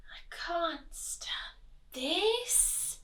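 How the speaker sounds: high, very slow plaintive protest; Mister Bear at breaking point; exasperated bear. A narrator's reading. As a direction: pull each word apart in despair. Bear fed up, cannot sleep.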